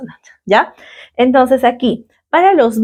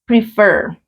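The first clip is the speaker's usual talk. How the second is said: Prefer with the weight on the last syllable, FER; stress on FER. Shown as a demonstration. Teacher showing the class where the stress is, Prefer stressed on FER. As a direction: lean on FER in Prefer, letting it fall. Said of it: "La entonación está en fer".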